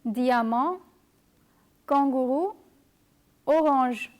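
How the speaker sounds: diamant, kangaroo, orange in French, with a nasal AN; French nasal pronunciation. Shown as a demonstration. Teacher gives example words, French nasal pronunciation of diamant, kangaroo, orange. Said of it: "A and N produce the nasal sound".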